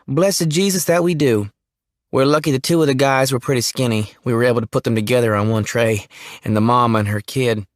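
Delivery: lightly voiced rattled country boy; nervous Jimmy. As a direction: blurt it out uneasily. Jimmy recounts the bodies.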